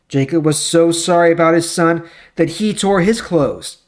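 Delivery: steady, measured storybook narration; Bible story reading. A narrator's reading. Reading Joseph's story to the class, in even storyteller tones. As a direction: read the scripture story to listeners.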